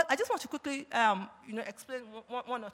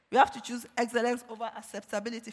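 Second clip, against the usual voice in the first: faster, lighter restatement; quicker repeat; faster than usual. Shown as a demonstration. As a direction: rush through the repeat.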